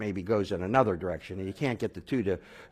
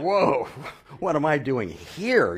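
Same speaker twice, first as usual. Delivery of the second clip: a high, loud, slowed cry of alarm; startled whoa; 6 semitones higher, 4 dB louder, slower than usual. Retold or imitated. Jewish newcomer in a wild church, alarmed and high. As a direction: recoil as if the room's gone mad.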